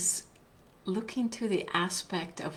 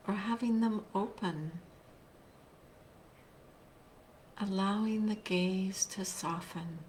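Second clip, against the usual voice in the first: guided meditation; 4 dB quieter than usual. Real, not acted. Teacher leading online listeners into a seated practice, guided meditation. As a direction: guide them gently, leaving long silences between phrases.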